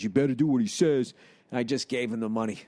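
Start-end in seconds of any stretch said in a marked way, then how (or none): 0.0-1.1 lightly imitated tall tough friend; Weird Harold. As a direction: put on a slight character voice for the threat. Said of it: "looked like fucking Weird Harold".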